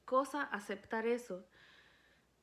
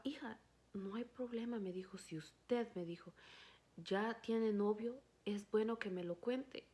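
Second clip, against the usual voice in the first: gentle father; 5 dB quieter than usual. Retold or imitated. Father gently questions crying daughter.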